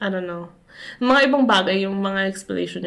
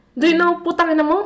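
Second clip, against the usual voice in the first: higher, louder sing-song punchline; mock foreigner question; 8 semitones higher, 4 dB louder than usual. Joking back at the foreigner parody, high and loud. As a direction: land the joke in a foreigner's voice.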